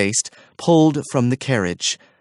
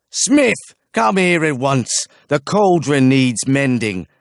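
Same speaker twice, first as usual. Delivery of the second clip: higher, louder call of Smith, then orders; imperious summons; 3 semitones higher, 3 dB louder than usual. A narrator's reading. Archer summons the smith, imperious call. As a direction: summon him like a servant.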